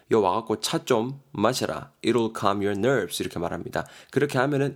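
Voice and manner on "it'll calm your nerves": 아주 느리게 한 단어씩 또박또박 읽기; 학생들이 따라오게 천천히 읽어주기. Shown as a demonstration. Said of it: "예문 천천히 낭독". (예문을 아주 느리게 또박또박)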